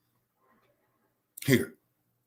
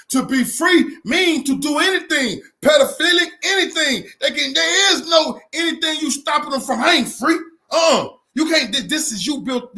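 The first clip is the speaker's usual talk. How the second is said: higher and fiery, voice straining near a cry; heated rant; 5 semitones higher than usual. Real, not acted. Ranting to viewers about what freedom means, heated and high. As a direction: rail against it, pitch climbing.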